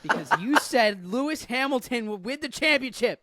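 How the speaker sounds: laughing while teasing. Real, not acted. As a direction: speak through a laugh.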